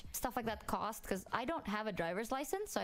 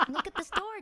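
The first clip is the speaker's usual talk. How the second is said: louder, higher call to dad; loud urgent call; 8 semitones higher, 6 dB louder than usual. Retold or imitated. Calling dad loudly.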